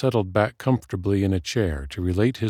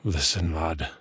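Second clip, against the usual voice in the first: put-on softer, calmer old dwarf; 2 semitones lower, 4 dB quieter than usual. A narrator's reading. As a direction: settle down and speak gently. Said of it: "Flint said more calmly".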